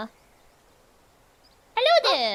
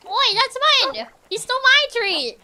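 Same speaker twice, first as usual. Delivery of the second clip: mock outrage; 10 semitones higher, 4 dB louder than usual. Game dog steals her treat.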